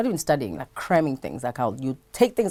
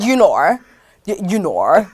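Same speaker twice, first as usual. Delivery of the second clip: a hint of the presenter's drawn you know; her catchphrase; 3 semitones higher, 9 dB louder than usual. Showing the host the presenter's catchphrase, lightly mimicked. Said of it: "She's always said".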